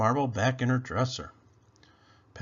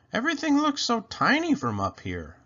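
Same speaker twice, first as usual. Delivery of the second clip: put-on excited child; 10 semitones higher than usual. Penny pretends to fly.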